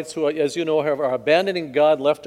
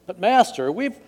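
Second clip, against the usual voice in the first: higher, louder protest, stretched on "long"; weary protest; 9 semitones higher, 3 dB louder than usual. Acted. Simon answers his Master after fishing all night, protesting. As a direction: plead the case to a master.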